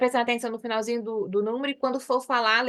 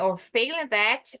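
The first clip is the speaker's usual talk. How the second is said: slow repeat; slower than usual. Shown as a demonstration. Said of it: "de novo, né?".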